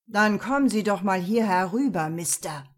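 hissing. Acted. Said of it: "zischte John".

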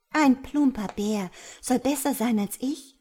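affronted, high and loud; indignant disbelief; offended. A narrator's reading. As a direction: take it as a personal insult. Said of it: "Nun schien die Libelle wirklich beleidigt".

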